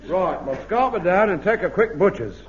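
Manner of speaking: put-on Cockney accent. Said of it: "It's supposed to be Cockney".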